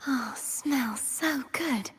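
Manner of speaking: slow, drawn-out relish; savouring. Acted. Knight enjoying a good smell, savouring. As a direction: linger on each word as you sniff.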